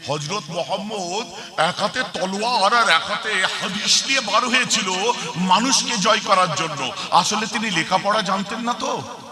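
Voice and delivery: lightly imitated slow speechmaker; mock speech with stretched words; political leader's style. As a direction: mimic a politician's measured oratory. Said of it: "আর একটু বলে দিই তার স্টাইলে".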